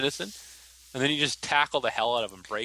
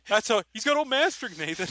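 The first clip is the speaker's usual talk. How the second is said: much higher, emphatic shout; insistent shout; 9 semitones higher than usual. Retold or imitated. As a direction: insist hard on old man strength. Byron insisting loudly.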